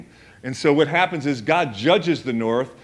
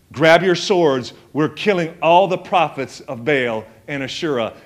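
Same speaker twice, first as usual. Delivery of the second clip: louder mock battle order; rallying command; 2 semitones higher, 4 dB louder than usual. Elisha's battle command, retold.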